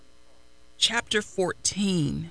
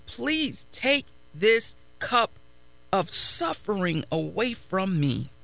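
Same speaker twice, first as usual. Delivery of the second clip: pleading prayer. Acted. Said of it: "he cried out".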